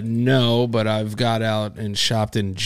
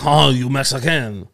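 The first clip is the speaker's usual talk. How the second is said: mock French stranger; 2 semitones higher, 4 dB louder, slower than usual. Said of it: "And he was like".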